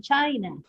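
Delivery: CHI stressed in "China"; stress on first syllable. Shown as a demonstration. Teacher repeating the example noun, first-syllable stress. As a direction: put the weight on CHI in "China", falling after. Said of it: "impact is on the first syllable".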